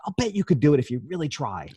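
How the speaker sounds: retold pep talk, lifting the pitch; cheering her on. Customer coaxing a frustrated waitress to try, cheering her on. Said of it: "I was trying to cheer her on".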